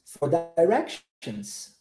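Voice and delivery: "directions" with first syllable "dai", slow. Shown as a demonstration. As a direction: say "directions" as "dai-REC-shuns". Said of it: "vamos tentar essa pronúncia".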